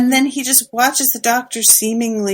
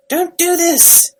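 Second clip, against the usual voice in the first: higher, slower, drawn-out retold plea; stretched mock wail; 9 semitones higher, slower than usual. House pleading again, retold as a slower hammed-up wail.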